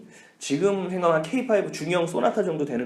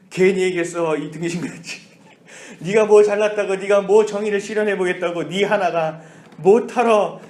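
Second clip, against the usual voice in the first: self-scolding; 3 semitones higher, 5 dB louder than usual. Retold or imitated. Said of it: "그런 마음이 들었는데".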